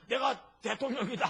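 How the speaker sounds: a hint of a pompous chief of staff; mock self-important claim. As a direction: puff up as a would-be president, half-laughing.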